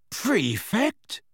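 high incredulous question with rising end. A narrator's reading. Fred reads his brother's letter, incredulous. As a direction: say it as if you can't believe it. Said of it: "staring incredulously at the letter".

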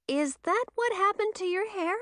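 high-pitched, amused question; stifled giggle. A narrator's reading. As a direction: ask as if holding back a giggle. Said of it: "stifling a giggle".

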